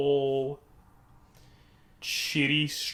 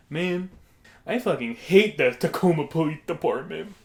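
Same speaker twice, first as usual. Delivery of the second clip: put-on grumbling customer, raised a little; odd customer impression; 3 semitones higher, 4 dB louder than usual. Odd stranger complaining to a diner, mildly aggrieved impression. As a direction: imitate the man's first complaint, fairly contained. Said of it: "It's how he sounded".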